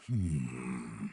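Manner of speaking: long, low, soft hum; drawn-out quiet hmm; pondering hum. Acted. Mulling over what the radio partner said, pondering hum.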